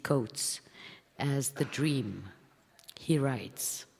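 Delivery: measured, deliberate reading of a prepared text; formal essay reading. Acted. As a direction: read it like a public lecture to the room. Reads prepared essay aloud.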